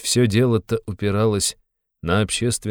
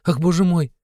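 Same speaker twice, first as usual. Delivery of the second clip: high, louder gasp of alarm; startled cry; 12 semitones higher, 5 dB louder than usual. Acted. Sonya hears they're being evicted, high startled cry. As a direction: jump up in alarm. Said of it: "вскинулась Соня".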